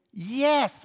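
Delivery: ordinary talk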